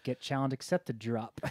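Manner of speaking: "challenge accepted" said slowly through laughter; a slow, giggly note to self; laughing. Real, not acted. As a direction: chuckle while saying "get challenge accepted drop". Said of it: "Note to self".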